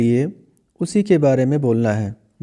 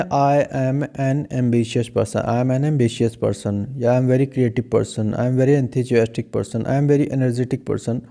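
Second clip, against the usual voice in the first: slow, softer run of example sentences; slow quiet examples; 3 semitones lower, much slower than usual. Shown as a demonstration. Teacher listing model sentences slowly for the class. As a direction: read the examples slowly and gently for students to copy. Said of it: "जब आप बोलते हैं".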